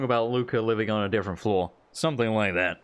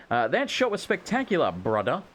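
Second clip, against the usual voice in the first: put-on a light, knockoff Jamaican accent, brother said as brudda; mock Jamaican accent; 3 semitones higher than usual. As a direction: tease the coach with a faint Jamaican lilt. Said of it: "a weird knockoff Jamaican accent".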